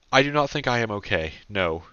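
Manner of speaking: trembling, unsteady words; shaky voice. Acted. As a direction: let the voice shake. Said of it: "in a shaky voice".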